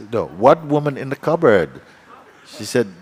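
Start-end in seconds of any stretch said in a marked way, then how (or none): 0.1-1.8 acted disbelief, higher and louder; incredulous. Hostess to friend at breakfast, incredulous. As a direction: protest in retold astonishment. Hostess hears of woman next morning.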